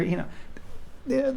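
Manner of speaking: ordinary delivery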